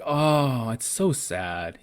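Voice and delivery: drawn-out sympathetic lament, dropping slowly; sad. Retold or imitated. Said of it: "this is such a sad part".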